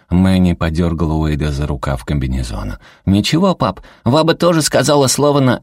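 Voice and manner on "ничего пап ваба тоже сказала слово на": put-on high, gleeful kid's voice; small boy telling on grandma; tattling child. A narrator's reading. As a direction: tell dad with innocent glee.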